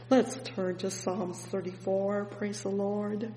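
ordinary talk, nothing marked

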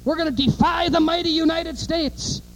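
high, defiant mock French leader; de Gaulle quote. Preacher mocking de Gaulle's defiance, in a high voice. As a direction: puff up in proud defiance. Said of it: "he said".

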